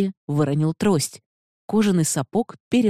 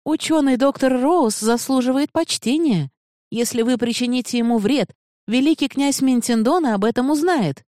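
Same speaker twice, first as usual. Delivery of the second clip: raised, higher indignant voice of a bold woman; defiant woman; 9 semitones higher, 3 dB louder than usual. Acted. Panaya defending the doctor before the magistrate, defiant. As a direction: stand up to the armed officer.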